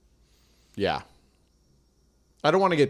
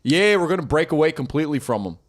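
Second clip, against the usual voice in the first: put-on Philly accent. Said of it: "Ben Franklin just like".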